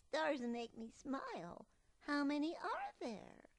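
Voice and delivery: high eager cub; a child full of wonder; little cub voice. Acted.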